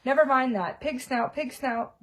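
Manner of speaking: winded after the run; panted. Acted. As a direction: gasp the password out. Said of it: "panted Harry".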